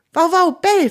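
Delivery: firm command. A narrator's reading. Theo commands his dog Wauwau, a loud firm order. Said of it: "fordert Theo seinen Hund auf".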